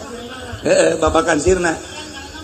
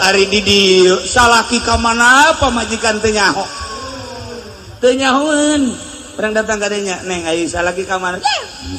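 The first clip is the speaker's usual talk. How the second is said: firm sermon voice, raised; preaching to congregation. Acted. Preacher to congregation, forceful sermon delivery. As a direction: preach the lesson to the faithful.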